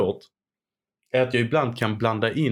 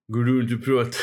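put-on Stockholm accent. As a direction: play a gruff Stockholm detective. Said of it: "när du använder din riks-, riks-, rikssvenska".

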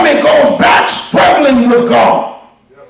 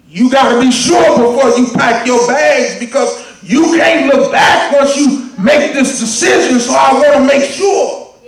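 preaching. Acted. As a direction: drive it home to the church. Preaching at full force.

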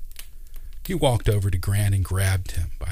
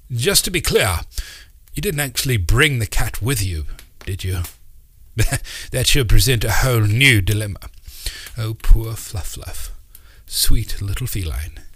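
put-on flustered old uncle; 3 semitones higher, 4 dB louder than usual. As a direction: babble in a kindly fluster about a dead cat. Uncle Doc's voice.

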